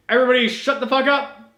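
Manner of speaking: loud, brash bellow at the room; mock boss shout. Masked hero bursting in to silence squabblers, loud and brash. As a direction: barge in and silence everyone. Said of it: "kicks in the door ... and goes".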